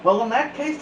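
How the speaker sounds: lightly voiced high principal; a hint of a pompous principal. A narrator's reading. Principal's voice in read-aloud.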